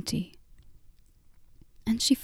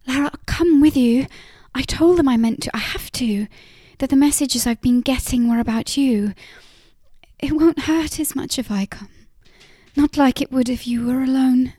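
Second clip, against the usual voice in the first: fast, higher, urgent plea; urgent pleading; 4 semitones higher, 3 dB louder, faster than usual. Acted. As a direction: rush it out, pleading. Jan pleads urgently, then weeps.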